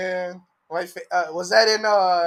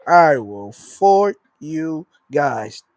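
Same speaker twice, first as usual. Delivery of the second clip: even slower, spaced-out mock menace; mock threat; much slower than usual. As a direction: stretch every word like a cartoon villain.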